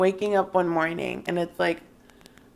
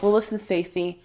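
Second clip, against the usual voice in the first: hammed-up defensive mom, louder in bursts; mock sassy comeback; 7 dB louder than usual. Defending her croissants to a rival mom, mock sassy. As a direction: tell off a rival mom, playfully.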